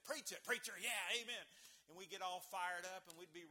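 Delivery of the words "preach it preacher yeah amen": loud, high call from the pews; pew amen. Retold or imitated. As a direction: holler back your approval at the preacher. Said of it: "And he'd say".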